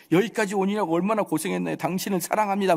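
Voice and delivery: mock sweet welcome; over-nice. Believer welcoming late-coming visitors, mock over-nice. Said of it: "그냥 착해 빠져가지고".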